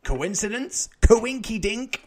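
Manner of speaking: slow, loud, high punning; mock dramatic. Real, not acted. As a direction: drag it out, hammy.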